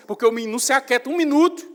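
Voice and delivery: "não se aquieta um minuto" said fast and loud, rising at the end; exasperated complaint. Shown as a demonstration. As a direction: rush it out, fed up with the restless boy. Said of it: "Entenda a entonação da voz".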